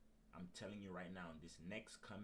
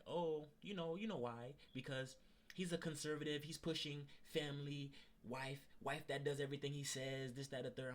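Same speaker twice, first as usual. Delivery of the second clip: higher, dismissive coworker voice, shrugging it off; mocking coworker; 8 semitones higher, 4 dB louder than usual. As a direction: brush it off like the careless coworker. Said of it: "then he was like".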